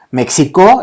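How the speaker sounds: "México" como "mek-si-kó"; nombre francés de la ciudad. Shown as a demonstration. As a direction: pronuncia "México" con ks y la o final acentuada. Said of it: "entonces es la Ciudad de México". (di "México" a la francesa, no con jota)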